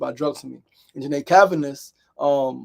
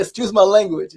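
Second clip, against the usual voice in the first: high, loud interjection; imitated tipsy woman; 5 semitones higher, 8 dB louder than usual. Tipsy Janae to the young niece, loudly apologetic. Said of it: "She's drunk".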